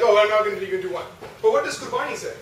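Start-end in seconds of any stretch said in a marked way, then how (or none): 0.0-1.0 louder, exasperated excuse; exasperated giving up. Retold or imitated. Someone skipping prayer out of frustration, loud and exasperated. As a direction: throw up your hands and quit. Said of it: "Some of us are just like".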